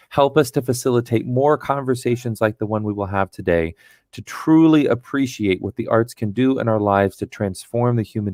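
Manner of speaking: calm, earnest spoken prayer. Acted. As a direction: pray aloud for the group. Leads an opening prayer.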